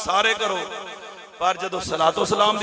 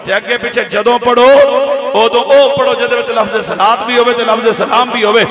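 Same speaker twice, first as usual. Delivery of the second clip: loud, insistent sermon voice; preacher raising his voice; emphatic preaching; 2 semitones higher, 12 dB louder than usual. Real, not acted. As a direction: press the instruction home to the congregation. Preaches at full force.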